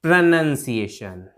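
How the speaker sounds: slow प्रोनंसिएशन with 'nun'; correct pronunciation. Shown as a demonstration. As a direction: spell out pruh-NUN-siation slowly in प्रोनंसिएशन. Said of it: "तो इसकी प्रोनंसिएशन". (धीरे, बीच में 'नन')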